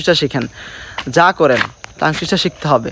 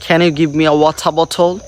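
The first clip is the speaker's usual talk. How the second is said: attempted British pronunciation, said once at a measured pace; British accent. Shown as a demonstration. Showing viewers British pronunciation, attempted British accent. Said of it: "which is called British pronunciation".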